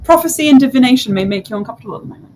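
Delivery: high, quick mystic fortune-teller; diviner's voice. Acted. Diviner greeting the player, high and quick. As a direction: rattle off the prophecy warning fast.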